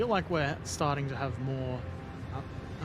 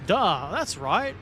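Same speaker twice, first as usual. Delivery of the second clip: mock Russian accent; 5 semitones higher, 7 dB louder, slower than usual. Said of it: "My terrible accent".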